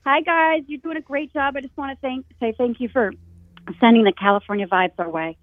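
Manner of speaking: rough, fading hoarse voice; a voice that is giving out. Real, not acted. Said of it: "sorry, I'm losing my voice".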